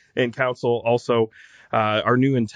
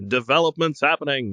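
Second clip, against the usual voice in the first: reporter voice. Pretend. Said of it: "This is my reporter voice".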